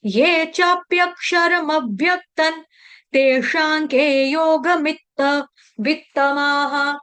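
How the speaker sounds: slow, drawn-out chant with long held vowels; Sanskrit verse recitation. Shown as a demonstration. Teacher modelling a verse for students, slow measured chanting. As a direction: chant it syllable by syllable, steadily.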